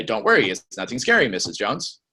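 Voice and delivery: canned, corny sales-script read; over-enunciated reassurance, by rote; robotic, scripted. Shown as a demonstration. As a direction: recite it stiffly like a script. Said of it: "don't sound robotic on that".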